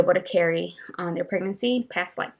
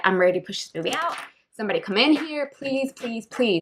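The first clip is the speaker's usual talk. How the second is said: desperate pleading; 3 semitones higher than usual. Retold or imitated. Begging staff during labour.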